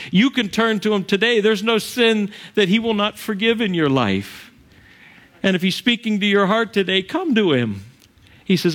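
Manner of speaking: heartfelt sermon invitation; preaching appeal. Acted. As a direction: plead with the congregation to come. Altar call preaching.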